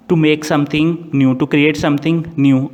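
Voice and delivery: very slow, word by word, as if dictating; slow dictation. Shown as a demonstration. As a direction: spell out each word for students to write. Dictating a definition slowly. (धीरे-धीरे लिखवाते हुए)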